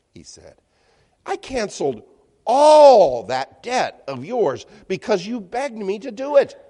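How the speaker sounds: stern master building to a loud rebuke; reading the angry master's rebuke with rising force. A narrator's reading. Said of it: "In anger".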